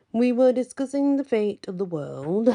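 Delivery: playful grand statement; grinning. A narrator's reading. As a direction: savor the drama. Az grins, teasing.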